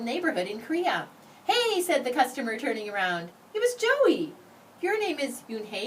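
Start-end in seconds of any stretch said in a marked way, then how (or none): 1.4-1.8 sudden high call; surprised. A narrator's reading. Customer turns, surprised. 4.8-5.8 surprised question. A narrator's reading. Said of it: "eyes open wide".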